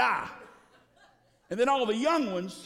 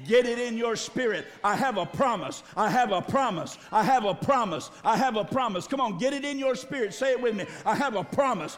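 fiery preaching. Acted. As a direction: drive it home to the congregation. Preaching at full force.

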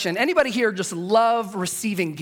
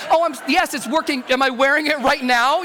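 higher, stumbling mock-nervous answer; flustered bluffing; 4 semitones higher than usual. Gift receiver covering up to the giver, flustered. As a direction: bluff your way out, comically caught off guard.

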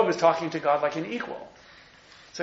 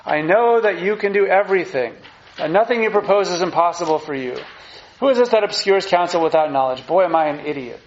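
Job answering God; 5 dB louder than usual. Acted. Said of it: "Job said in reply to the Lord".

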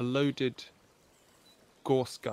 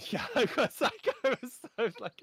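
mock high voice; 10 semitones higher than usual. GM retells own reaction.

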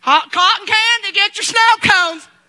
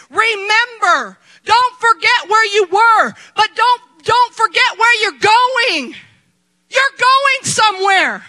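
preaching shout; 2 semitones higher, slower than usual. Real, not acted. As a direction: hammer each phrase home slowly. Preacher driving home the point.

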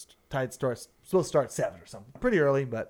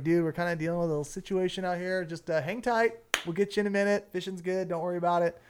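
reassuring; 4 semitones higher, 3 dB quieter, faster than usual. Retold or imitated. Guide reassuring clients by phone.

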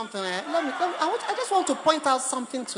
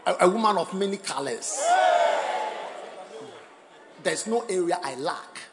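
mock devoted husband; 2 semitones lower, 4 dB louder than usual. Acted husband resumes praise.

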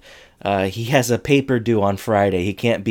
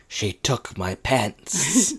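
mock Corey; 5 dB quieter, much slower than usual. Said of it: "And Corey is like".

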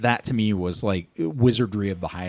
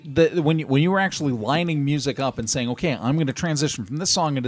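put-on old man voice; 6 semitones higher than usual. Old man bit continues.

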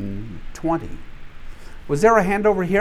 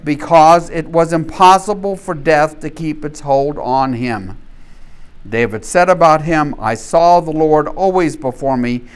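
loud, ringing apostle's appeal to the crowd; preaching as Peter; 5 dB louder than usual. Acted. Peter to the Jerusalem crowd, loud preaching. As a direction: proclaim it like Peter rising before the crowd.

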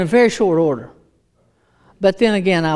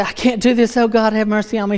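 higher, hurried retold plea; mock desperation; 4 semitones higher, faster than usual. Smoker begging God for mercy, mock desperate. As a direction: plead comically with God. Acting out desperate past self.

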